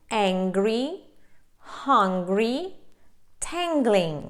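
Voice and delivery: "angry", "hungry", "tangling" with nasal NG then audible G; careful, separated model words, "angry", "hungry", "tangling"; NG with hard G. Shown as a demonstration. Teacher giving examples before R and L, hard G. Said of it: "ще звук г".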